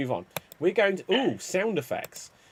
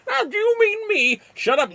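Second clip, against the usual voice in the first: put-on squeaky high girl voice; 5 dB louder than usual. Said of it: "that girl that did up her shirt".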